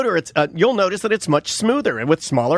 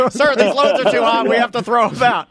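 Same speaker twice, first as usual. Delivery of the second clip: slightly high, urgent plea to the boss; lightly acted anxious employee; earnest worker reporting; 4 semitones higher than usual. Tom telling the plant guy the loads are too hot, mock earnest.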